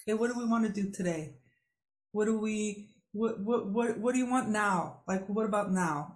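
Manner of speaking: fast, eager, tumbling repeats; eager asking. Retold or imitated. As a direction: bubble over with what now. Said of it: "such a beautiful flow".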